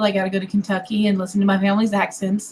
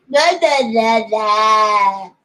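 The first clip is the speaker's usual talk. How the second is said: nonsense blahs; much slower than usual. Shown as a demonstration. Mocking own failed accent attempt.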